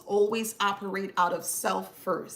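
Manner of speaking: ordinary talk, nothing marked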